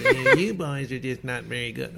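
a hint of a snide sportswriter; lightly mocking the critic's voice; sneering mock put-down; imitating the writer. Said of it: "he kinda talked like this".

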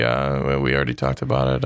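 very low monotone coach; Bill Belichick. Acted. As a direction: stonewall the press in a deep, dead-level voice. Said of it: "am I doing a good Bill Belichick?".

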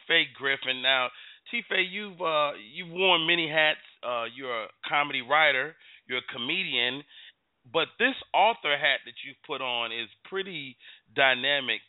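formal news anchor interviewing; lightly put-on interviewer tone; anchor man voice. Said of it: "you sound like an anchor man".

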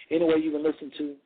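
winded, out of breath from talking nonstop. Real, not acted. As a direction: speak out of breath after a long run of talk. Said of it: "I'm out of breath".

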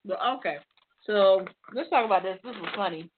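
talking while chewing Oreos; words round a bite of cookie; mouth full. Real, not acted. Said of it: "I'm eating my Oreos".

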